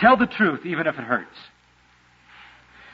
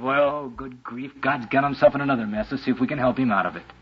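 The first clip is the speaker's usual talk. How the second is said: mock exasperated sigh; 4 semitones lower, 3 dB quieter than usual. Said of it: "take the attitude of".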